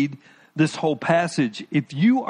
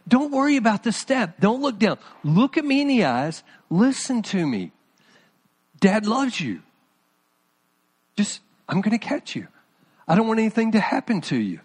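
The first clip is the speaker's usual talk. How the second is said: slightly raised, lightly acted fatherly reassurance; a dad's caring reassurance, retold; encouraging dad; 3 semitones higher than usual. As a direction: coax a small child to trust you. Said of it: "glimpse of my love and my concern".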